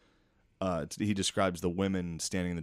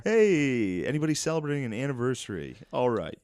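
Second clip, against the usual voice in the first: much higher and louder, over-bright stand-up host; a chirpy comic greeting the crowd; comedian hype; 7 semitones higher, 7 dB louder than usual. Pretend. Continuing mock comic crowd-work.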